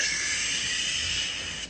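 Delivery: whispered shh; a soft whispered hush. Pretend. Concert lights hushing.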